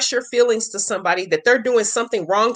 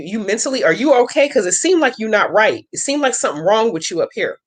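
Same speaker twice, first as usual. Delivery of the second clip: gaslighting demo. Retold or imitated. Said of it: "And I say".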